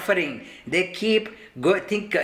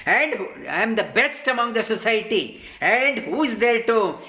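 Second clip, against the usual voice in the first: boastful rich man. Retold or imitated. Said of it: "and they talk like this".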